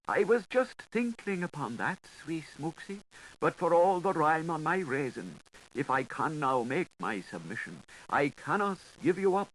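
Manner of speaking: a mild whimper, pleading to keep hold; understated whimper, half swallowed; whimpering Gripes. A narrator's reading. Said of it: "the Gripes whimpered".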